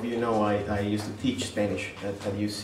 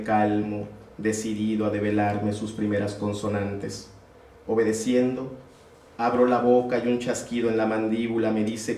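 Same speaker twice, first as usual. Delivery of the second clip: measured recital with pauses between phrases; poetry reading. Acted. Poet reading his Spanish poem to a gallery audience, measured recital. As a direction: read the verse evenly, letting each line settle.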